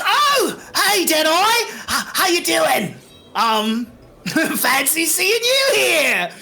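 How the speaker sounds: high, stammering fake-friendly greeting; nervous kobold rogue. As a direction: greet the captor you dreaded meeting, awkwardly. Game master plays caught kobold.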